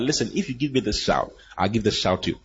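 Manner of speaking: soft, pleading vow; desperate whisper. Retold or imitated. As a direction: murmur the promise desperately. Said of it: "whispered on her lips with desperation".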